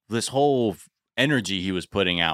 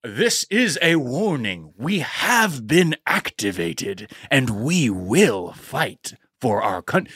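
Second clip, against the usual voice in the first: ominous warning; slower than usual. Retold or imitated. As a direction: deliver it as a grave warning. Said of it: "who's like".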